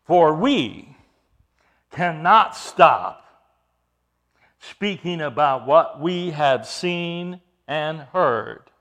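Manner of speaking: slow, deliberate scripture reading; measured declaration. Retold or imitated. Peter answering the council, slow and measured. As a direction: spell it out slowly, with pauses. First reading, before the emphatic repeat.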